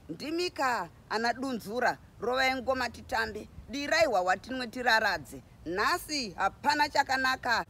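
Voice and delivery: high, exuberant ululating woman rousing the crowd; a hint of a playful clever woman cheering; festive sahwira. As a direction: call the village to dance, high and lively. Sahwira woman starts celebrating.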